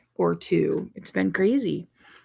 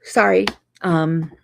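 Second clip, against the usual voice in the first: yawning; 5 dB louder, slower than usual. Real, not acted. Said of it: "apologies for the yawns".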